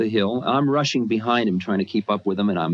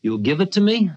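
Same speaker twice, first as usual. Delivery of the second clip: teasing guru; 10 semitones higher, 3 dB louder than usual. Retold or imitated. Guru asks for the car.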